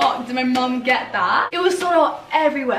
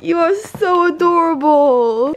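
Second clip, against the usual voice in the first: loud, drawn-out gushing; adoring coo; 3 semitones higher, 5 dB louder, slower than usual. Real, not acted. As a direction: gush slowly over an adorable pet. Gushing over the dressed-up pet.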